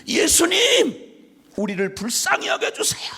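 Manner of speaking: breathy pleading whisper, slow on the name; a whispered cry for mercy; whispered plea. Retold or imitated. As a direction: beg in a hushed whisper. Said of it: "열 문둥병자가 외쳤던 말처럼".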